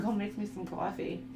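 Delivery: slipping into a Boston accent; accidental Boston twang on "coffee". Real, not acted. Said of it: "like, a Boston accent?".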